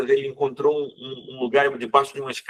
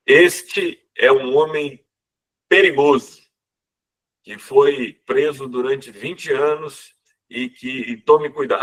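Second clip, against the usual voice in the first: stern official warning; 4 dB louder, slower than usual. Retold or imitated. Reading the prisoner's warning paper.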